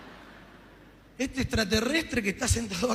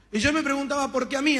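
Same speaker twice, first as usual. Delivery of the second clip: raised anguished voice; 3 semitones higher, 5 dB louder than usual. Retold or imitated. Emotional retelling, raised voice.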